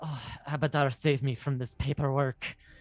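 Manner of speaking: muttered under the breath. A player's character downs a drink and mutters before charging the wolf.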